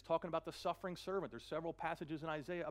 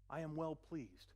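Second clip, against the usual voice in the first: tender; 4 dB quieter, slower than usual. Acted. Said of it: "speaking as the Father".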